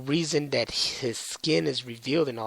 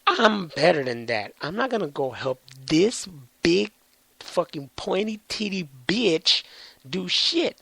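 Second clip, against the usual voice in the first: cocky defiance; 3 semitones higher than usual. Retold or imitated. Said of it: "they're all like".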